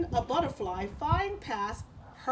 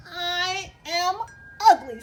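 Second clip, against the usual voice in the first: mock sad cricket; 8 semitones higher, 10 dB louder, slower than usual.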